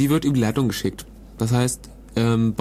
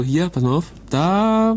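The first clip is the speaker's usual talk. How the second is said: acted tipster; 4 semitones higher, slower than usual. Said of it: "Der eine sagt so".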